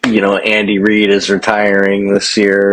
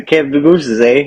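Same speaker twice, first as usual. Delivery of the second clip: mock Canadian; 3 semitones higher than usual. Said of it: "fucking Canada?".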